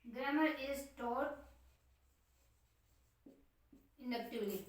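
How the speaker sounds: each word spaced out slowly and softly while writing; slow dictation. Shown as a demonstration. Teacher dictating notes to the class, slow and soft. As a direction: dictate it word by word for students to copy. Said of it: "पढ़ाई जाती है".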